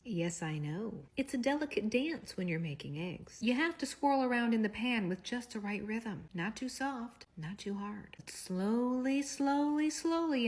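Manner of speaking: lightly voiced husband, drawn-out and soft; mock seductive husband. Husband's over-the-top egg speech.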